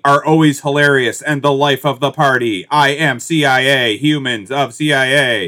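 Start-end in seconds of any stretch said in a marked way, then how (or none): 2.7-5.5 slow, lightly robotic declaration; a hint of robotic ad read; mock robotic slogan. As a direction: parody the stiff ad voice. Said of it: "It's so robotic".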